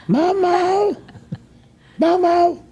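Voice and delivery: high, loud imitation of his mother; yelling a name. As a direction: call out like the old lady. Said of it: "I went".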